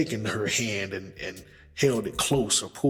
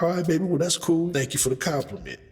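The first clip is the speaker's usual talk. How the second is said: smooth brush-off; 8 semitones higher, faster than usual. Pretend. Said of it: "smooth way of handling that scenario".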